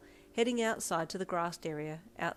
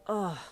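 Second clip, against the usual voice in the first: groan; 3 semitones higher, 5 dB louder than usual. Acted. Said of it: "you groaned".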